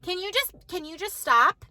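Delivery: mildly fed-up, insistent telling-off; retold aggravation. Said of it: "So then I got aggravated".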